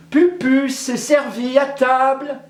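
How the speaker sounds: high, loud call to dinner. Acted. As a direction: call her husband from the window. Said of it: "elle a appelé son époux".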